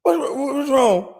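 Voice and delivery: high, fretful voice of the wife; worried wife. Retold or imitated. Imitating the wife opening the door, worried. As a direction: ask like an anxious partner at the door. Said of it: "So she opened the door".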